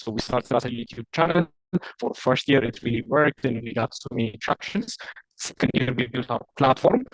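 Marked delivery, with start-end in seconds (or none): 2.0-7.0 choppy breaking-up line; call dropping out. Real, not acted. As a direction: voice cutting in and out. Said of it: "I have a hard time understanding you".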